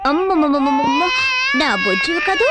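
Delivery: put-on tender cooing to a crying baby; soothing. Mother comforting her crying baby, tender and cooing. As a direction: hush the baby gently.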